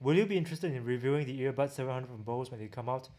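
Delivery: ordinary talk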